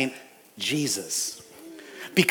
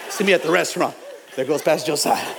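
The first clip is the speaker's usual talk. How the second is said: laughing joke; faster than usual. Real, not acted. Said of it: "joking, laughing".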